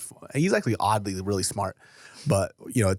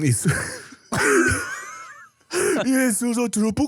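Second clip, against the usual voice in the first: laughing; 13 semitones higher, 3 dB louder, slower than usual. Real, not acted. Repeating name through laughter.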